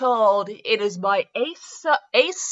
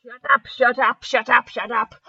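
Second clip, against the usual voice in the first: mock perky squeal. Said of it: "A perky voice squealed".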